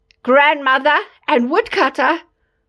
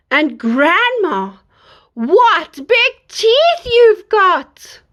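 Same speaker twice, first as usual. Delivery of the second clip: put-on slow little girl; 5 semitones higher, much slower than usual. Girl wonders at granny.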